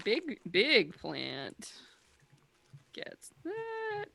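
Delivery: slow booming tree voice; talking tree. Acted. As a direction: rumble it out like a treant. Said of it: "I'm gonna feel that treant voice tomorrow".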